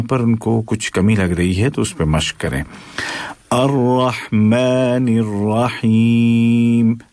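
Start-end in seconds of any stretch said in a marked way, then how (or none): 3.5-7.0 Quran recitation. Shown as a demonstration. Teacher recites verse melodically.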